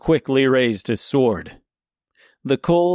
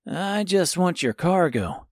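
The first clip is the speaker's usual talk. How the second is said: put-on young boy voice; 6 semitones higher, 3 dB quieter than usual. A narrator's reading. Tip speaks.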